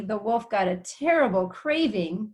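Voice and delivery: terrible leaned on, rising; stress on terrible. Shown as a demonstration. Teacher reading to kids, stressing the word terrible. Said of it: "which means he really wanted it bad".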